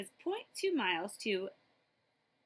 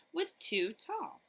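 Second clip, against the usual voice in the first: drawn-out punchline; 8 semitones higher, much slower than usual. A narrator's reading. Punchline of repeated pattern.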